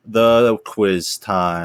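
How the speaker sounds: slow drawn-out announcement; announcer voice. Acted. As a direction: stretch it like a game show host. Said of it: "the best segment of the show".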